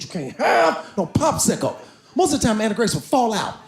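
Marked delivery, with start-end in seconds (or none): 0.0-1.8 slow firm mom. Retold or imitated. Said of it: "She said".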